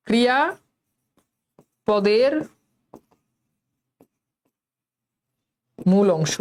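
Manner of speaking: very slow, word by word with long pauses; slowed-down dictation. Shown as a demonstration. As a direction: spell it out slowly for the class, leaving big gaps between words. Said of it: "কথা বলার speed কমান".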